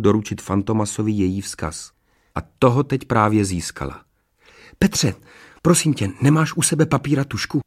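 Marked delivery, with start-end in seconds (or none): 4.8-7.6 higher-pitched call, not shouted. A narrator's reading. Princess calling to a prisoner in the next cell. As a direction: call to someone next door. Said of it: "zavolala na Petra".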